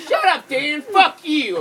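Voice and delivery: a loud, high imitation of snapping swearing; imitating the wife cursing out her husband; mock angry wife. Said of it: "like, swearing at him".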